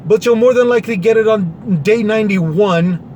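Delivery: dry, mocking aside; sarcastic. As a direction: say it with a sarcastic edge. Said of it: "I'm being a little sarcastic".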